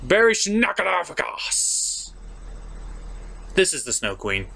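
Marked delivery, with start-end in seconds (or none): 0.1-2.1 slow struggling read. Real, not acted. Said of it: "what is his last name?".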